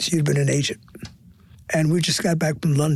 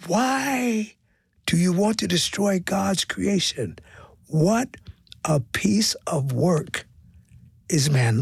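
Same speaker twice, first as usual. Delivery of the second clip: impassioned plea; 3 semitones higher, slower than usual. Retold or imitated. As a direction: voice the show's message as a measured appeal. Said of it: "And Hair was saying".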